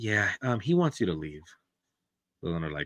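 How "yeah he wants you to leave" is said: put-on very polite, courteous tone. Retelling how the wife asked the crew to leave: imitating someone speaking politely. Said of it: "very politely looks at him".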